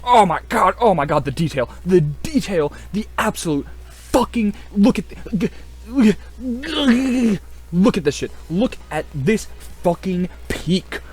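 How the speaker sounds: high, slow, overwhelmed gush; almost tearing up with delight; gushing awe. Real, not acted. Marvelling at mech detail, high slow gush.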